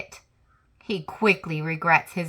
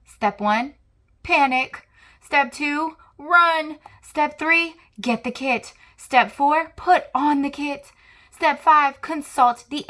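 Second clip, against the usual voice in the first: high, loud, frantic listing of steps; panicky; 8 semitones higher, 5 dB louder than usual. Acted. Reading the squirrel's panicky emergency plan aloud, frantic. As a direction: shout each step in a panic.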